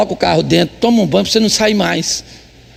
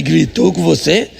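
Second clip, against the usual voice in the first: mock stern disbelief; 4 semitones lower, slower than usual. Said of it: "Eu falei".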